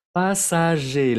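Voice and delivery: Passager slow, ending pasaje with no R; silent R. Shown as a demonstration. Teacher modelling the silent final R. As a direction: stretch out Passager and drop the final R. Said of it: "la R no se pronuncia".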